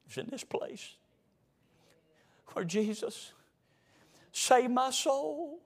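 breathy whisper, slowing to a crawl. Shown as a demonstration. Preacher voicing the old members' thoughts, whispered. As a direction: whisper it like a secret treasure. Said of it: "contrasting whisper with a loud take".

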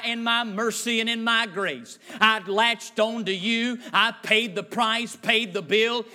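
fervent preaching. Acted. Preaches God's words to the sinner.

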